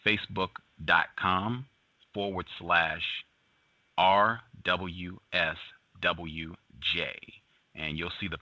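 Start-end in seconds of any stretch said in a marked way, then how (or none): 0.1-7.1 slow, careful dictation of the address; said slowly. Shown as a demonstration. Host repeating the web address for listeners, slowly. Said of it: "I'll say it again slowly".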